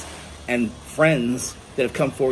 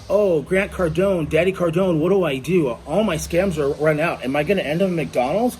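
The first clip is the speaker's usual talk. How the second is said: whiny mock plea; 3 semitones higher than usual. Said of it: "Mike comes back and says".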